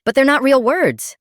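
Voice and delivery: very high, loud whiny protest. Retold or imitated. Teenage son protesting the new rule to his parents, high loud whine. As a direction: plead your innocence at the top of your voice. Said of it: "I protested".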